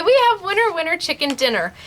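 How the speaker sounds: sing-song catchphrase. Real, not acted. Host announcing the giveaway winner in a bouncy sing-song. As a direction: call out the catchphrase like a game show host.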